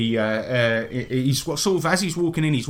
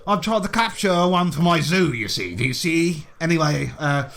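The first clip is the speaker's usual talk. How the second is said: hearty, swearing colonial gent greeting the party; a lightly voiced jolly British explorer; bluff British adventurer. Willie greets the newcomers, a lightly voiced hearty British gent. Willie explains his zoo.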